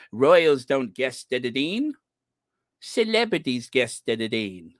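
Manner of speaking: lightly mocked New Zealand twang, tongue-tied; Dan Wooten. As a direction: imitate someone stumbling in a New Zealand accent. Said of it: "he's stumbling over his lines".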